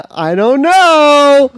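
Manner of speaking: drawn out through a laugh. Real, not acted. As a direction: still laughing, stretched slow.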